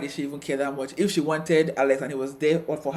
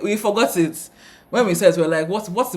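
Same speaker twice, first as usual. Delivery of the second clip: incredulous; 5 semitones higher, 9 dB louder than usual. Real, not acted. Incredulous about the moment.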